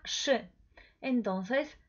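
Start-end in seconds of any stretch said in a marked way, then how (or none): 0.0-0.3 the diphthong said as one hushing sh; sh sound. Shown as a demonstration. Polish teacher showing Spanish speakers a diphthong, sh sound. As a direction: pronounce it as a single "sh". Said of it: "se pronuncia".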